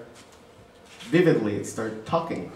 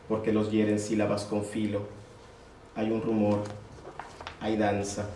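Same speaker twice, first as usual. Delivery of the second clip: measured recital with pauses between phrases; poetry reading. Acted. Poet reading his Spanish poem to a gallery audience, measured recital. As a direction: read the verse evenly, letting each line settle.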